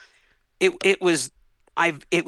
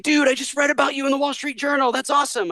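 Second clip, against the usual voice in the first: excited caller; 11 semitones higher than usual. Retold or imitated. Clients calling after the article.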